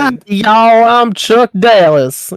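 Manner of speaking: slow, high, stretched Southern drawl. Shown as a demonstration. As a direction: show how to drawl it out slowly. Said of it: "put that Southern drawl in there".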